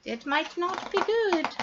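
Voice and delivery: hint at trouble under the breath; hushed, ominous. A narrator's reading. Ominous narrator aside.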